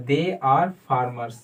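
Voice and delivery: very slow, deliberate example; model sentence. Shown as a demonstration. Teacher modelling the answer slowly. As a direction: say it slowly for students to repeat. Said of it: "तो क्या होगा?".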